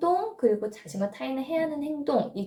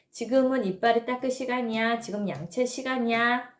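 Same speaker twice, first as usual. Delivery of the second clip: coaxing parent. Retold or imitated. Parent at bedtime coaxing a child to brush, coaxing sing-song. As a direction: sweetly urge the toddler to come brush. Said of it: "이러면서 가르쳐 줄 일이".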